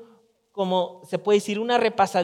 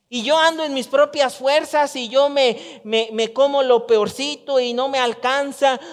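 retold disbelief; 4 semitones higher than usual. Preacher retelling rereading the verse, higher astonished disbelief. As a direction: sound like you can't believe what you just read.

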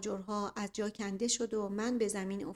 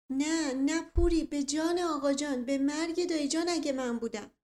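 high, anxious, swearing innocence; flustered pleading; 5 semitones higher than usual. Acted. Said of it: "دستپاچگی و نگرانی من".

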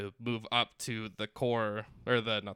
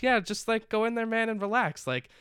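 lightly imitated easygoing teacher, pitched up high; nice, soft teacher; 7 semitones higher, 3 dB louder than usual. Retelling the teacher reassuring his student before playing, nice and high. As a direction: put on a mild, reassuring higher voice. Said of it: "this, like, nice, soft, like, teacher".

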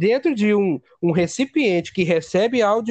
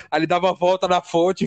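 ordinary delivery

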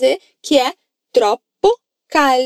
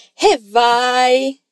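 happy and relieved. Acted. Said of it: "ele responde feliz e aliviado".

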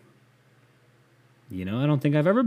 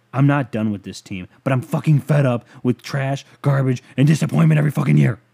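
a hammed-up angry fan's rant, louder in spots; dramatic reading; 4 dB louder than usual. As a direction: read it like an outraged, bitter Browns fan. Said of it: "this is gonna be a dramatic reading".

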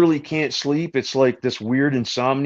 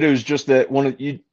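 talking through a mouthful of food; chewing while talking; 2 semitones lower, 4 dB quieter than usual. Real, not acted. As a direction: chew while you speak. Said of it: "I'm chewing in your ears".

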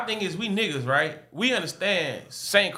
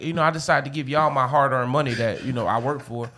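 entitled customer; 3 semitones lower than usual. Pretend. Acting an offended customer complaint.

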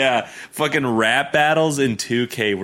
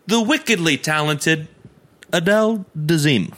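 Travolta impression; 4 semitones higher than usual. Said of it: "He goes".

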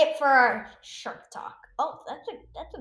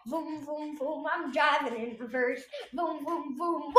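mock crash sound effects. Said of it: "this is how it goes".

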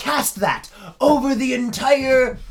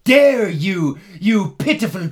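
battle shout; 3 semitones lower than usual. Acted. Elf starts sword battle.

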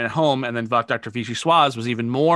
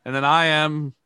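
put-on Ukrainian accent. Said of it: "I have Ukrainian accent".

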